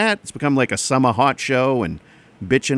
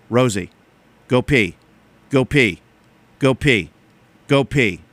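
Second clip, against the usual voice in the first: neighbor at dawn; 3 semitones lower than usual. Retold or imitated. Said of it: "here's an impression of my neighbor".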